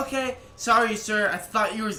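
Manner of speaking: put-on yelled apology; imitated yelling. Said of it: "like, she yelled it".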